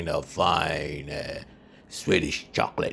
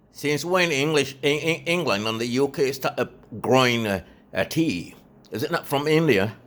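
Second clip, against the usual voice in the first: indignant disbelief; 9 semitones higher than usual. Acted. Indignant challenge about tea.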